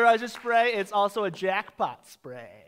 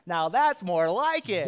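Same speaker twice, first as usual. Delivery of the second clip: catchphrase delivery; slower than usual. Shown as a demonstration. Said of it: "a catchphrase?".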